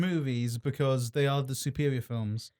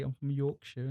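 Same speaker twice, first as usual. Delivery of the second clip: put-on Yorkshire accent, softer; 6 dB quieter than usual. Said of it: "you have a British accent anyway".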